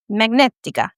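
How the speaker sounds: playful put-on Italian pronunciation; light Italian accent. Shown as a demonstration. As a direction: say it with a mock Italian lilt. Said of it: "I keep with the Italian accent".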